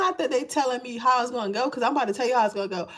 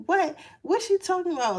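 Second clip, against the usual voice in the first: higher, mock loudmouth granny; a hint of a loudmouth aunt; loud sassy grandmother; 6 semitones higher than usual. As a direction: play the nosy loud elder, lightly. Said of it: "like, real loud".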